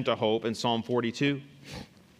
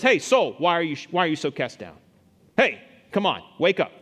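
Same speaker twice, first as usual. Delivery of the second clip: raised voice calling to his own soul; psalmist rousing himself; 4 dB louder than usual. Acted. Psalmist to his soul in a bad situation, rousing call. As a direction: urge yourself awake, firm and a bit loud. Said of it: "and he still says".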